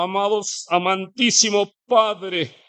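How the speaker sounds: mock pompous prayer, drawn out a bit; showy prayer. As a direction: lightly ham up a showy public prayer. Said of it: "Si, si está en un restaurante".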